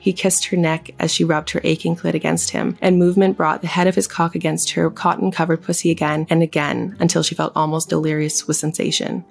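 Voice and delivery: sultry audiobook reading; story narration. Acted. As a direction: read it like a steamy audiobook. Reads erotic fiction aloud.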